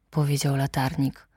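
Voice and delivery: ordinary delivery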